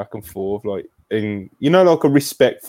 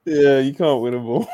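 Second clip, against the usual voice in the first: laughing agreement; 5 semitones higher than usual. Real, not acted. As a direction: agree while chuckling. Laughing along about the failed impression.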